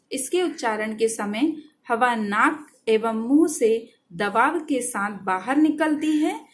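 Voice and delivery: slow dictation. Shown as a demonstration. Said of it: "dictating a definition".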